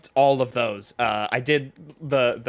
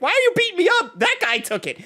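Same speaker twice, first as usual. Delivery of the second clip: very high, whining protest; whiny kid. Acted. High school kid pleading with the hero, very high whine. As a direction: squeal like a bullied schoolboy.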